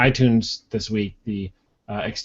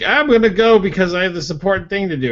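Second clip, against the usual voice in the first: mock Gandalf; 7 semitones higher, faster than usual. Mock Gandalf, explained version.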